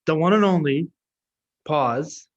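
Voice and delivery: imitating a dramatic host's pause; hammed-up announcer build-up; mock dramatic intro. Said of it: "you're like".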